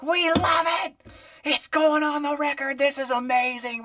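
high, gushing record label cheer; excited label people. Retold or imitated. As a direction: gush like a thrilled label exec. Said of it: "And they're like".

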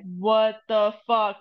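slow, drawn-out dismay; recounted tearful disbelief, only lightly acted; retold crying. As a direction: stretch each word in retold despair. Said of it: "I just started to cry".

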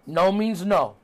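slow, deliberate mock admonishment; Cody. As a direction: spell it out slowly, each word apart. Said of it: "says this funny thing on commentary".

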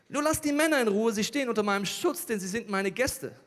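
loud, high opening that eases off; urgent plea. Acted. Lot begs the mob to spare his guests, urgently. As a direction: plead loudly, then settle a little.

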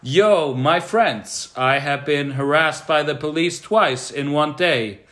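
lightly voiced grand speaker; slow, solemn address; hint of a preacher voice. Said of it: "What's wrong with you?".

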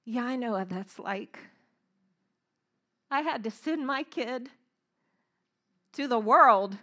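gentle Father's voice. Retold or imitated. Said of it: "I heard the Father say".

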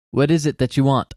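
a touch of an irritated father's snap; just a hint of impatience, not a real bark; mild snap. Father cut off while reading his paper, mildly snapping. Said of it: "I snapped".

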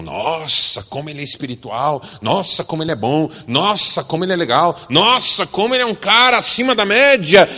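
building from mild praise to loud, high gushing; mock admiration. Admirers raving about the pious man, hammed-up rising gush.

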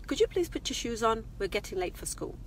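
slightly sarcastic polite request; mildly sarcastic mum asking her son to hurry; a bit sarcastic. Retold or imitated. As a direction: ask nicely with a light sarcastic edge. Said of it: "I'm gonna tell you the tone".

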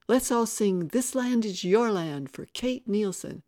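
rally the whole crowd to sing; calling out. A narrator's reading. Chuck to the crowd from the running board, calling out.

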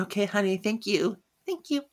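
soft, high acted sweetness; sweet phone sign-off. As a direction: play a light, honeyed goodbye on the phone. Acting out a phone goodbye.

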